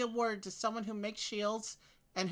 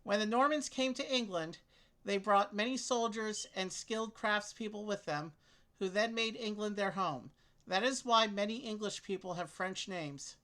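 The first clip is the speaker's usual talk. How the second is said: reading aloud; 3 semitones higher than usual. Acted. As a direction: clear read-aloud voice. Reads clue text aloud.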